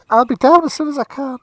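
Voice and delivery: irritated shout down the stairs; calling from upstairs. Acted. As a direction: call down the staircase in exasperation.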